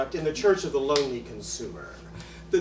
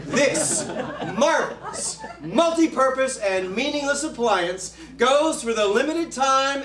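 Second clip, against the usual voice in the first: brisk pushy salesman read; infomercial pitch; 3 semitones higher than usual. Acted. Comic replaying his old infomercial job, hard sell. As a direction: sell the junk like a TV huckster.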